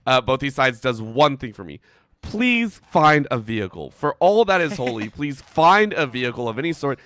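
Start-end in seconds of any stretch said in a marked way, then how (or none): 2.2-7.0 emphatic mock begging; playful pleading. Caster begging both teams for a vehicle, playful pleading. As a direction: plead with heavy stress on each request.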